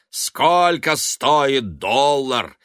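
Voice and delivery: high, loud, angry shout building up. A narrator's reading. Son shouting at his mother about money. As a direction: yell back at her, furious. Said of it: "закричал он".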